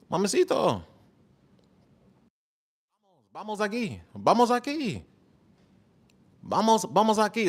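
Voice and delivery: high, playful Spanish lines; mock Spanish flirting. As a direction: practise Spanish lines like a ladies' man. Practising Spanish pickup lines.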